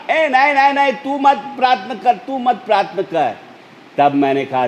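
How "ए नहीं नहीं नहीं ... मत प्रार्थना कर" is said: high, agitated mock yell of a protesting demon; imitated demon cry. Demon begging the preacher not to pray, imitated high-pitched yelling. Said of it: "दुष्टात्मा चिल्लाने लगा".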